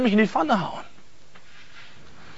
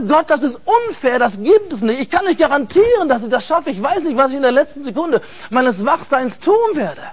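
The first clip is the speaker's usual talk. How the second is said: agitated protest; 5 semitones higher than usual. Retold or imitated. Pleading protest to God.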